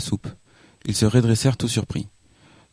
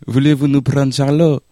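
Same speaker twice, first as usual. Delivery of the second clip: a rough countrywoman's voice, pitched up in disbelief; lightly voiced farm wife, startled and suspicious; peasant mother; 4 semitones higher, 5 dB louder than usual. A narrator's reading. Peasant mother grasps they want her son, lightly voiced incredulous countrywoman. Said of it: "Elle demanda".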